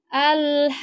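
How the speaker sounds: Al-haqqah with long vowel then hard qaf; over enunciating. Shown as a demonstration. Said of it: "Suara kita itu ditinggikan atau dihentak".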